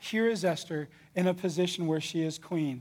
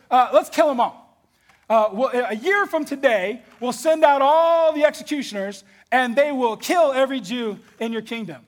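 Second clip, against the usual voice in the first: higher, louder casual plotting; scheming Haman; 4 semitones higher, 5 dB louder than usual. Acted. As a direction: propose murder as if it were lunch plans. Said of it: "And he goes".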